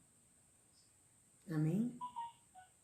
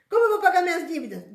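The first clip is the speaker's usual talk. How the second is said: higher, louder, fast worried whine; mock complaint; 9 semitones higher, 9 dB louder, much faster than usual. Preacher mimicking a worried believer's lament, fast and high. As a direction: rush it out like a fretful complainer.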